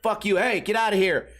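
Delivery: usual speaking voice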